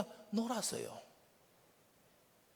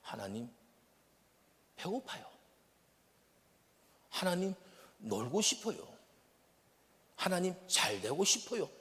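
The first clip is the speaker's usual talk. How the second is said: simple prayer. Shown as a demonstration. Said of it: "정말 심플하게 해야 됩니다".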